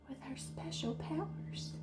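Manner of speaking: magical hushed whisper. Acted. Fairy whispers to Jaya about her powers. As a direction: breathe the magic.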